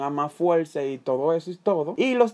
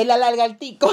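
laughing; 10 semitones higher, 5 dB louder than usual. Real, not acted. Mocking friend, laughing.

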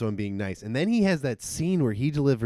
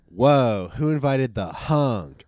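imitating Aubrey Plaza; 5 dB louder, slower than usual. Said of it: "Aubrey Plaza goes".

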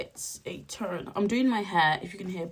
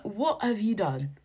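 slow, mock-aghast question; retold astonishment, drawn out; intrigued shock; 2 semitones higher, slower than usual. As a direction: stretch out the question in playful disbelief. Retelling alarm at police remark.

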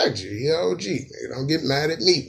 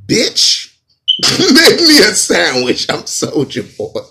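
slow, high, put-on cocky rapper voice; mock rapper; 7 semitones higher, 7 dB louder, slower than usual. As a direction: ham up a cocky rapper demand. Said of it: "Then he didn't say that".

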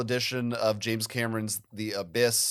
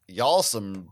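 sassy accusation; slower than usual. Retold or imitated. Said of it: "I'll be like / it's when I'm being sassy".

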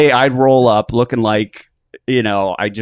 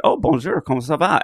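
French; 5 semitones higher than usual. Retold or imitated. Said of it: "I instantly went to French".

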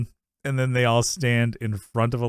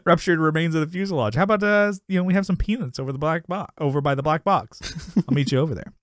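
mock flirting; 6 semitones higher than usual. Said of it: "It's like".

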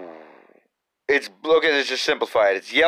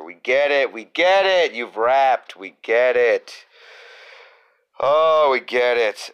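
exasperated; 3 dB louder than usual. Acted. Exasperated repeated complaint.

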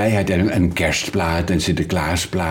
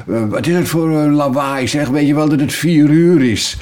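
higher, louder irritated call across the street; woman calling out; 7 semitones higher, 4 dB louder than usual. Retold or imitated. Neighbour woman calling from her window at the trumpet noise. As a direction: shout at the noisy neighbour. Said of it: "dan hoor je een vrouw roepen".

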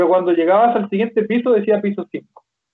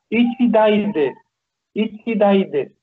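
slow demo; slower than usual. Shown as a demonstration. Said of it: "Y tengo".

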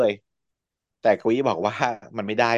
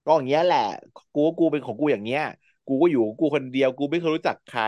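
a touch of sulking; sulky; 3 semitones higher than usual. Retold or imitated. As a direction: pout it out a little. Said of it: "กวีก็เลยงอน บอกว่า".

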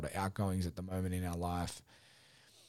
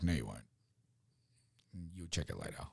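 taunting ego; 7 dB quieter, faster than usual. Retold or imitated. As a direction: tease him as the ego that knows he'll cave. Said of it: "my ego was like".

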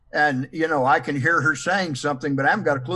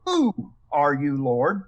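"Who" stressed, drawn out, slower; 3 semitones lower, slower than usual. Shown as a demonstration. Teacher shows a Bible class a shift in stress, stress on "Who". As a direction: lean on "Who" as if asking who it could be. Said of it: "if we change emphasis of the words".

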